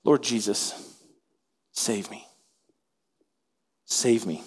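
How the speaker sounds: whispered "save me", low and soft; hushed desperate plea. Acted. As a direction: pray it under your breath. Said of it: "He cried out and said".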